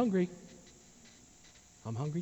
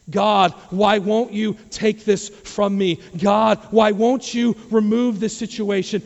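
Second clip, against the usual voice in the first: loud, high cries to God, slow and insistent; impassioned pleading; 5 semitones higher, 7 dB louder than usual. Acted. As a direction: beg God at full preaching force. Voices believers' pleas to God.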